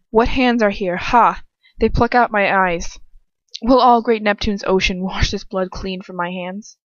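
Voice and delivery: Macbeth quote. Acted. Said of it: "that's Macbeth".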